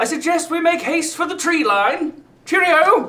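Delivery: very high-pitched, put-on English accent. Voicing the Englishman urging the group toward the trees: put-on English accent. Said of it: "The Englishman steps forward".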